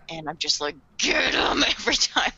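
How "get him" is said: higher, drawn-out rallying cry; fired-up cheer. Acted. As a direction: urge them on like a fan. Cheering on the character every time.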